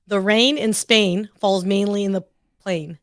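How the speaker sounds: American model of the line, pause before the last word; American accent. Shown as a demonstration. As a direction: demonstrate in American English. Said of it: "you know I can't say it that way".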